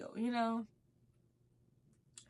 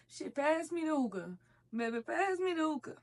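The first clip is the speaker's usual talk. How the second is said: tipsy request; 5 semitones higher than usual. Retold or imitated. Her tipsy request retold.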